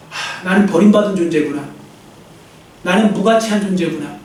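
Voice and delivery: low, sighing self-pity; understated, acted dejection; self-belittling. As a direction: voice someone sinking into worthlessness. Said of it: "자기에 대해 자꾸 비하를 해요".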